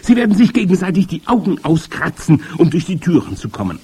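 high, loud witch declaiming to her followers; high-pitched, forceful witch voice; grand witch. A narrator's reading. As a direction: rant shrilly as the witches' leader. Großmeisterhexe speaks to her audience.

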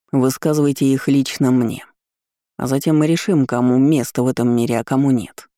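hoarse voice with whistling s. Acted. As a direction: rasp it out, hissing on the s sounds. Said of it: "Хриплое, с присвистом и смертельно опасное".

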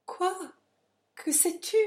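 high, sharp questioning; startled demand. A narrator's reading. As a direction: jump in with alarmed, high questions. Startled demand in lovers' quarrel.

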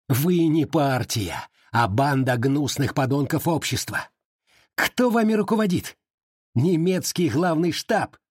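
raging high-pitched tirade; shouting in rage. Acted. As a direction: scream abuse at your captor. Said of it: "Калмыков кричал".

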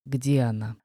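low, soft choking rasp; hoarse rasp. A narrator's reading. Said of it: "прохрипел Огнен". (хрип от удушья)

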